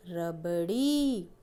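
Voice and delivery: रबड़ी read slowly, syllable by syllable. Shown as a demonstration. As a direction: sound out रबड़ी for the children. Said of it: "रबड़ी में भी बड़ी की मात्रा है". (धीरे-धीरे अक्षर बोलकर)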